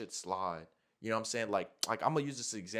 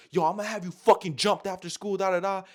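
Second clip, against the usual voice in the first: raised, loud mock threat; imitated threat; 6 semitones higher, 6 dB louder than usual. Girl threatening him outside school, imitated loudly and angrily. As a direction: act out her angry warning.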